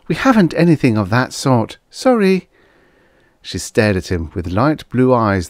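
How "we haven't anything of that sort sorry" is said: higher-voiced gentle apology; sympathetic girl. A narrator's reading. Waitress has no steak for the diner, sympathetic. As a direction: let him down kindly in a girl's voice. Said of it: "She smiled sympathetically".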